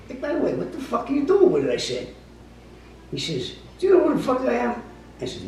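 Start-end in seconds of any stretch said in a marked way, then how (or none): 0.1-1.7 retold yell. Retold confrontation, yelling at thief. 3.8-4.8 mock angry shout. Thief shouting back in story.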